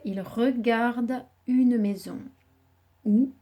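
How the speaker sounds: slow, partly whispered repetition; slow memorising repeat. Shown as a demonstration. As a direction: murmur the sentence slowly to learn it. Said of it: "Le petit garçon regarde". (répétition lente et chuchotée pour mémoriser)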